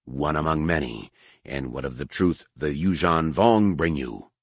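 low, quietly menacing; menacing alien priest. Acted. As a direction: challenge him, low and cold. Harar challenges the Gotal.

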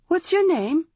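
high, demanding question; peremptory. A narrator's reading. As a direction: snap the question like an order. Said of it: "she asked, peremptory".

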